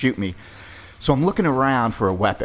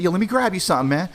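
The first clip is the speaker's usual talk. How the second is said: nervous higher voice; 9 semitones higher, faster than usual. Retold or imitated. Narrator's past self stalling.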